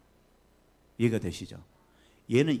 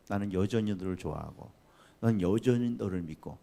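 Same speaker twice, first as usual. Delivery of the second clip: gentle fatherly God; 4 semitones lower than usual. Acted. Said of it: "그게 우리 아버지잖아요".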